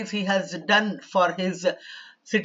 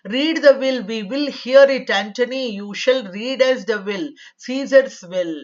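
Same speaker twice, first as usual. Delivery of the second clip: loud, high demanding cry of a crowd; citizens' shout; 4 semitones higher, 6 dB louder than usual. Acted. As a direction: shout it at Antony like an angry mob. Citizens demanding Antony read will.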